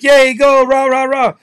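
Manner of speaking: high, loud, bubbly mock cheer; mocking cheerleader. Mocking fake cheerleaders at a game, high, bouncy cheer. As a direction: ham up a peppy cheerleader. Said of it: "The cheerleaders like".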